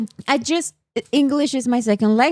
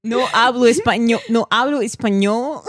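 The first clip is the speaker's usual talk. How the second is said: Spanish in a put-on Russian accent. Imitating a Russian speaking Spanish, Russian accent. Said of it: "Russian speaking Spanish".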